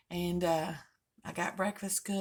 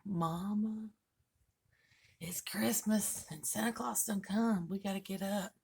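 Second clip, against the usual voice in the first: mock excited whisper. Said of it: "right in my ear".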